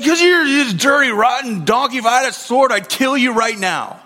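mock-angry rant, pitched high; angry Balaam. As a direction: act out an exasperated, furious outburst at the donkey. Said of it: "But he's so angry".

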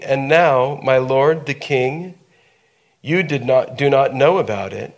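steady, measured Bible reading aloud; scripture reading. Acted. Pastor reads Nathan's counsel to Bathsheba, measured. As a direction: read the verse to the congregation, unhurried.

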